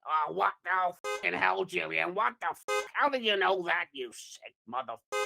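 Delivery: indignant gangster, trailing down at the end; Joe Pesci. Acted. Joe answering the nutritionist's accusation, indignant gangster voice. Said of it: "do it in that accent".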